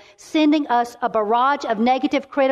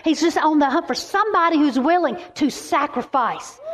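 raised pitch, emphatic declarations; fervent preaching; 5 semitones higher than usual. Real, not acted. Preacher declaring that God turns prisoners into preachers, fervent. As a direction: build the congregation up with fervent conviction.

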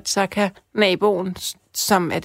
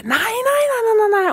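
very high, louder panicked screams of no; retold terrified scream; 13 semitones higher, 3 dB louder than usual. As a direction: shriek it like a woman in terror. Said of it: "hun skreg". (gengivet panisk skrig, meget højt)

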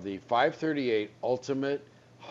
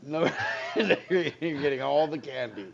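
laughing; 3 semitones higher than usual. Real, not acted. Laughing retort to trading joke.

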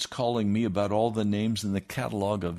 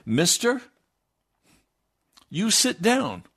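raised, higher voice ordering a man to sit; stern command; 10 semitones higher, 5 dB louder than usual. Retold or imitated. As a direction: bark the order at the heckler. Preacher orders heckler to sit.

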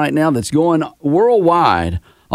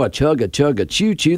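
lazy train imitation. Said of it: "That ain't even trying".

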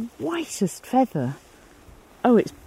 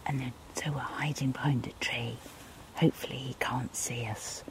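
breathy hiding whisper; 8 semitones lower, 13 dB quieter than usual. Real, not acted. Hiding behind a tree.

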